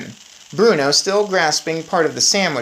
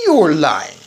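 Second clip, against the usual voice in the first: accusing cry; 5 dB louder than usual. Acted. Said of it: "he cried".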